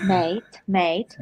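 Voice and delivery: put-on Archie's accent. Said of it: "The way he says mate".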